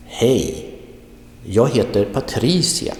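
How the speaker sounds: "jag heter" quick and light, "Patricia" punched; stress on Hej and Patricia. Shown as a demonstration. Teacher says listen again, stressing "Hej" and "Patricia". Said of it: "you read them a little bit more quickly".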